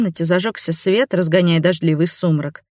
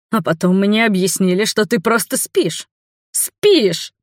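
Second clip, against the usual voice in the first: exasperated outburst; 2 semitones higher than usual. Acted. Angry fiancé retells the night.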